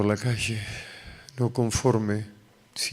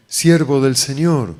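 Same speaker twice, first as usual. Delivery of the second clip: loud, drawn-out, raised-pitch call; shouted call; 3 semitones higher, 8 dB louder, slower than usual. Retold or imitated. Unseen voice calls out to him on the avenue, shouting. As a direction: holler it slowly, as if across a street. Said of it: "que grita".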